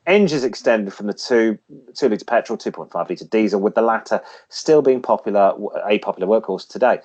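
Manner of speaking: lightly read-out segment voice; feature read. Acted. Reads classic car feature.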